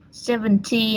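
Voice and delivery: SEV-enty, weight on the first syllable; stress on first syllable. Shown as a demonstration. Student presenter showing classmates number stress, seventy stressed on the first syllable. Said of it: "numbers that ending in T are stressed on the first syllable".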